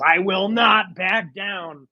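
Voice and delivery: slow, stiff action-figure voice line; mock talking toy. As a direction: play it like a toy's recorded catchphrase. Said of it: "It says".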